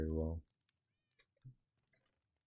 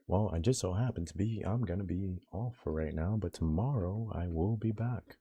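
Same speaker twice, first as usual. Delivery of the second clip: news reporter voice; 3 semitones higher, 5 dB louder than usual. Pretend. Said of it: "news reporter voice".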